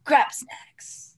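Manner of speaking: breathy dramatic whispered title. Pretend. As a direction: whisper the show name. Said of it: "cue the very intense music".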